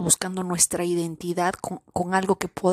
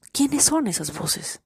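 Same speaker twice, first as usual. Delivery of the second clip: repeated question, higher and slower; high, slow probing question; 6 semitones higher, slower than usual. Shown as a demonstration. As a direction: lift it higher and stretch it slowly. Rhetorical question repeated, then stretched.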